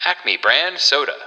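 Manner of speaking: punchy brand tagline; chipper 1950s ad. Acted. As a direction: land the brand name proudly.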